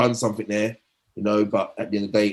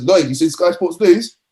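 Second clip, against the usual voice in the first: higher, louder, slow and pointed; eager teammate; 7 semitones higher, 6 dB louder, slower than usual. Retold or imitated. Teammate eagerly breaking the news in the changing room, higher and louder. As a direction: teammate teasing him with the news, slowly.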